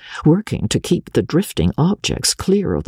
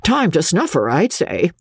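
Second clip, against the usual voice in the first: lightly voiced midwife, pitched up; a hint of a know-it-all midwife; fat midwife; 6 semitones higher than usual. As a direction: offer it as an old hand's opinion. Midwife presses the young doctor.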